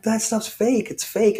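high-pitched imitation of scoffing buddies; mocking dismissal. Acted buddies dismissing his faith.

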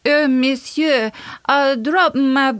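put-on high, slow French accent of a fancy lady; hammed-up Parisian French accent, drawn out and high. Fancy Parisian lady calls the sewer watchmen, thick French accent. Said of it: "That was a spot-on French accent".

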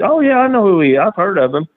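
mock cocky rookie bragging; imitating the braggart. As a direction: puff up like a know-nothing rookie. Retold bragging wannabe wrestler.

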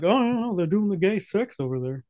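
high-pitched mock worry that drops off; mock alarmed public. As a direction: imitate a scandalized crowd. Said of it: "population being like".

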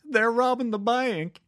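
high, urgent alarmed townswoman; frantic warning. Retold or imitated. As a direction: blurt it out in a panic. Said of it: "And then she told the chief".

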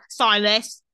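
lightly mocked British pronunciation; bad British accent. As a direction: mimic his poor British accent. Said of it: "This accent is bad".

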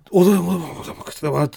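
garbled, broth up the nose; words drowned by a coughing splutter; おでんも食ってたわ sputtered through a choke; choking on broth. Real, not acted. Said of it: "なんで溺れたんだよ".

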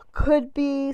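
ordinary delivery

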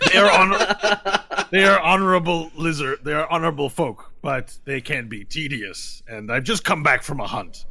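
lightly voiced lizard warrior, formal with laughter breaking in; Brahmi. Lizard warrior grumbles about honorable but tedious guests, lightly in character.

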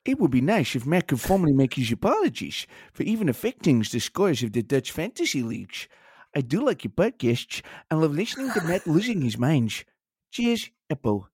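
put-on reading in a light Dutch accent; a hint of a Dutch accent. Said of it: "have a bang at that in a Dutch accent".

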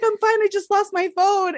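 high, small voice insisting she's fine; lightly mocked self saying she's fine; mock brave. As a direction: play the teary kid brushing it off. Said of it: "I was like".

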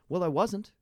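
high, loud retold protest; mock-innocent denial. Customer answering the old man's accusation, high protest. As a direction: pitch it right up in playful denial.

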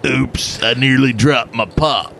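put-on redneck English accent. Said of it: "It's a redneck in England".

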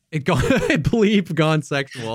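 laughing through the words; breaking into giggles mid-phrase; cracking up mid-line. Real, not acted. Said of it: "I'm laughing at my own joke".

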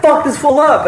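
high-pitched mock holler, not full volume; imitated egging-on yell. Friend egging him on against the neighbor, high imitated yell. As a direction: mimic a friend cheering on a fight. Lonzo egging on fight, repeated.

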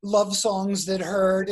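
slow, laughing through the joke. Retold or imitated. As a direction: crack yourself up mid-line. Riffing jokes, laughing together.

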